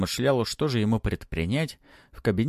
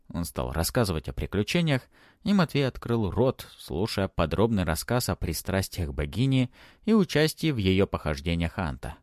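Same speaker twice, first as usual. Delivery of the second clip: usual speaking voice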